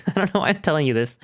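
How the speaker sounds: quick, embarrassed laugh through the words; real giggle at oversharing. Real, not acted. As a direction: rush it out while laughing.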